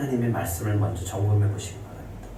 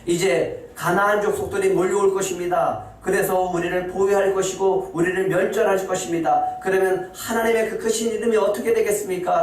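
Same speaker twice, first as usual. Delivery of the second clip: raised, pleading complaint to God; complaining Joshua; 6 semitones higher than usual. Acted. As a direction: voice Joshua's lament to God, pitched high. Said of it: "라고 지금 여호수아는 원망하고 있어요".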